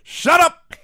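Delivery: very high, loud mock shriek; imitated scream. Wrestler cutting off backstage interviewer after three words, imitated scream. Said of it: "Sid just screams".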